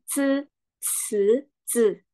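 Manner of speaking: "Se" and "ze" with lips spread in a smile; smiling mouth. Shown as a demonstration. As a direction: hiss "Se, se, ze" through a smile. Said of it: "Nah, kalau ini harus senyum".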